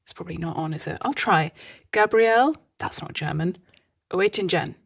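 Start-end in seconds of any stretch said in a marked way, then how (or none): 1.9-2.5 higher, louder stab at a German accent; badly faked German accent, pushed up and louder; attempted German accent. Shown as a demonstration. Host trying a researcher's name, badly faked German accent. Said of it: "shall I do a German accent". 4.1-4.8 quicker, half-hearted German accent on the surname; attempted German accent. Shown as a demonstration. Host retrying a researcher's surname, half-hearted German accent. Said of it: "shall I do a German accent".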